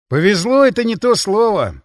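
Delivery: wary soldier grumbling; shuddering. Acted. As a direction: shrink from the thought. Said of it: "поёжился я".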